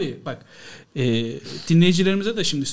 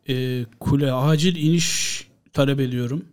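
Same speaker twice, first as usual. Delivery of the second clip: slow emergency landing request; lightly voiced pilot on the radio; pilot over the radio; 4 semitones lower, slower than usual.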